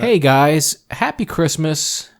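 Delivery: cheery show-opener shout-out; upbeat intro greeting. Shown as a demonstration. Co-host trying out an intro for listeners, upbeat greeting.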